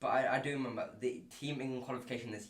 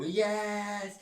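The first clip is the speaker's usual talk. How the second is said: high, loud burst of celebration; dad's joyful yell; 9 semitones higher, 5 dB louder than usual. Retold or imitated. Son's win sends the usually calm dad shouting for joy. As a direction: shout it like a reserved dad who just saw his son win. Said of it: "see my dad go".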